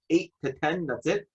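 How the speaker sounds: mock the short hours, stunned; incredulous. Incredulous retort to clerk.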